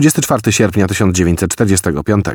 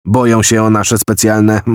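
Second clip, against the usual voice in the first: "specjalne" given a light, solemn weight; stressing the word. Acted. The general briefs Kelly, weighing "specjalne" solemnly. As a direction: lean on "specjalne" as if it's secret. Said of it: "to słowo zabrzmiało nadzwyczaj doniośle".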